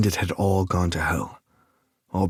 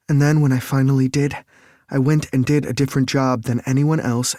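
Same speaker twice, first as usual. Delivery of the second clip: higher, louder female voice, upset and self-blaming; Lake upset; 6 semitones higher, 3 dB louder than usual. A narrator's reading. Lake confessing to Nick she feels left out, higher and louder. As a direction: pour it out as Lake, high and upset.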